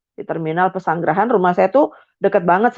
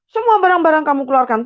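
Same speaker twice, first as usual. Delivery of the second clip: angry father ordering; 9 semitones higher than usual. Retold or imitated. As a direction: demand it sharply. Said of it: "Tiba-tiba papa saya". (perintah ayah dengan marah)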